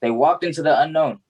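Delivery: spoken-word delivery, line by line with pauses; poem recitation. Acted. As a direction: recite it as a personal story in verse.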